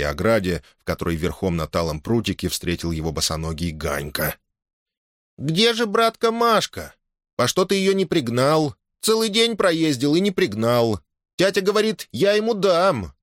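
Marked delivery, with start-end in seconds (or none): 5.4-13.1 put-on high childish voice, eager and insistent; a barefoot kid pestering his big brother; boy's voice, pleading with his brother; little boy. Boy questions elder brother.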